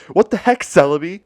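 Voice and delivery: high, loud yell. Retold or imitated. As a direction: shout it up high at her. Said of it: "All my Pokemon just kept yelling".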